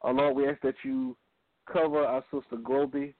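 earnest, measured radio prayer. Acted. Leads opening prayer.

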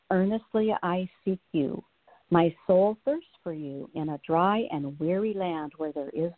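earnest reading of a psalm; scripture reading. Real, not acted. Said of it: "I'm just gonna read a little portion of it".

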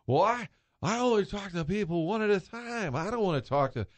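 put-on a touch of a fussy old announcer; Harry Caray. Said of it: "He said".

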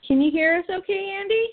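over a speakerphone line; phone speaker. Real, not acted. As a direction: sound like a caller on speaker. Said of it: "We have you on speakerphone".

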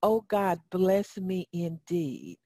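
leading the congregation, unhurried; call and response. Shown as a demonstration. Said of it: "Everybody say that with me".

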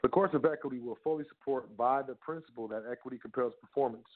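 measured recital of a legal passage; dry, even legal reading; reading legal text. Acted. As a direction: read it out like a statute. Reads legal text aloud.

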